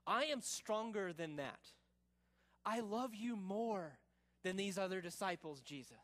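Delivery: mildly boastful pledge of loyalty; a touch of cocky devotion; arrogant chutzpah. Acted. Peter pledging himself to Jesus, mildly arrogant. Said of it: "chutzpah and arrogance".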